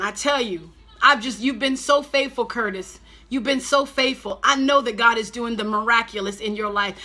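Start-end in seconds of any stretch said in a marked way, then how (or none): 4.4-7.0 fiery preaching. Acted. Preacher prophesying fire over a viewer, full-force preaching.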